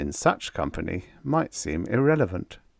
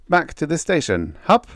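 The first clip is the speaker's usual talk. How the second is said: louder, firm command to the bears; commandingly; 9 semitones higher, 4 dB louder than usual. Acted. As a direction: order the bears to move out. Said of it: "he said commandingly".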